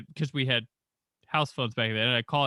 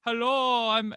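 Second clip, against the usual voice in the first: put-on Rastafarian accent; 9 semitones higher, slower than usual.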